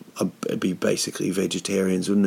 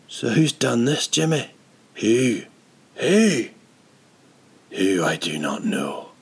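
put-on Scottish accent; 4 semitones higher than usual. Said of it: "little Scottish man".

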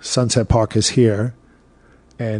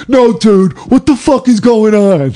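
mock retort; 10 semitones higher, 4 dB louder than usual. Sanitation guy retorting.

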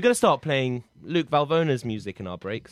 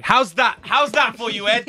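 put-on higher-pitched stab at an American accent; attempted American accent; 6 semitones higher, 4 dB louder than usual. Host testing an accent on co-host, attempted American accent. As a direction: try an American accent, still audibly British. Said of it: "my American accent".

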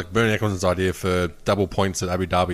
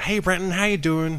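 higher-pitched mock American woman; American accent; 8 semitones higher than usual. American gambler greeting her dealer, imitated American accent. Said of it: "She had, like, American accent".

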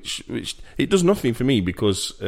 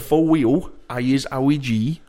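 slow comic catchphrase in a put-on voice; lightly hammed-up character voice; Ali G; 3 semitones higher, slower than usual. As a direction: drag out the mock street-talk. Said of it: "who is it that does Ali G?".

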